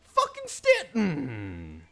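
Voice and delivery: loud, very slow, drawn-out half-sob rant; mock fury. Real, not acted. Player ranting at a rival, loud and stretched in mock anguish. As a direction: ham up the exasperation.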